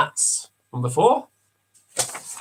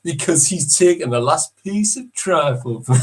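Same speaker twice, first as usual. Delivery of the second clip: reality show narrator. Acted. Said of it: "you wanna repeat".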